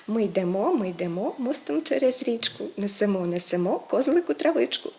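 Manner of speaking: lilting recitation with verb endings stressed; children's rhyme. Shown as a demonstration. Teacher recites children's song as a stress aid, rhythmic recitation. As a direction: recite it like a little rhyme, stressing йдемо and несемо on -МО. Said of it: "дитяча пісенька".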